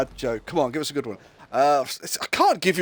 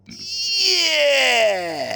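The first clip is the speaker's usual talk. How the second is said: mock yell; 13 semitones higher, 3 dB louder than usual. Acted cop yelling with nightstick.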